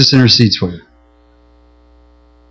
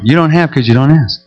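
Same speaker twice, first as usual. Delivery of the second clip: calm. Retold or imitated. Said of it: "very calm".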